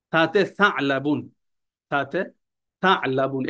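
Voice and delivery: slow "সালাবুন" with pressure on the opening syllable "sa"; pressed articulation. Shown as a demonstration. Teacher telling students to press a little, pressed articulation. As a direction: lean into "সালাবুন", sounding each syllable deliberately. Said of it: "একটু চাপ দিয়ে পড়বেন".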